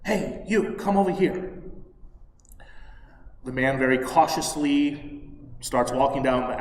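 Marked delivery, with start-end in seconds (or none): 0.0-1.5 hushed whisper from a dark alley; secretive whispered call that fades to a soft voice. Acted. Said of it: "somebody whispering to him".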